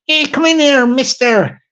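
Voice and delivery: a hint of a wee Irish official; wee Irish woman. Council woman calling a visitor into an appointment, lightly voiced wee woman. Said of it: "That's a wee woman".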